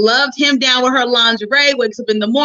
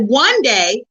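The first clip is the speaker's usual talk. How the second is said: mildly sarcastic jab, barely changed from her own voice; a light, frustrated dig wrapped in sweetness. Retold or imitated. Wife teasing her husband about his self-care, lightly sarcastic. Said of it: "I was being sarcastic because I was frustrated".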